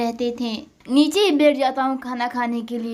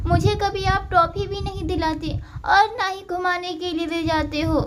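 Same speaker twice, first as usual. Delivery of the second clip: put-on higher, whiny child complaining; young daughter grumbling to her miser father; sulky little daughter; 6 semitones higher than usual. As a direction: pout at a stingy papa.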